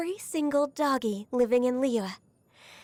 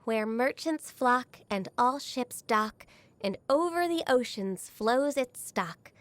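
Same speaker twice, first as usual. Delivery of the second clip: reciting a saying; slower than usual. Acted. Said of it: "People say this in praise of Liyue's prosperity".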